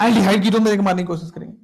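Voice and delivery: quick recap at speed; fast run-through; fast repeat. Shown as a demonstration. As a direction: rattle it off quickly. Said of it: "repeated at speed".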